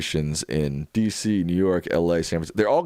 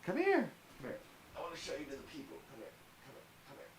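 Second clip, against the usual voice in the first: much higher, sing-song calling to the dog; 10 semitones higher, 18 dB quieter, much faster than usual. Real, not acted.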